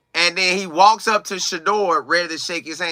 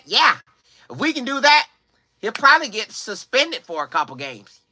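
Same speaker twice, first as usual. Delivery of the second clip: scheming media; 4 semitones higher than usual. Acted. Acts out media plotting to bait him.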